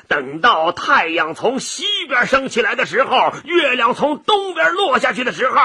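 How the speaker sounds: mildly indignant, mocking refusal; a touch of huffy scorn; angry dragon. Dragon refuses to return horns, mildly angry. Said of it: "龙一听就生气了".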